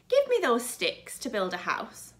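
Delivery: lightly voiced piggy request; a hint of a small pig pleading; little pig voice. Pig asks for sticks.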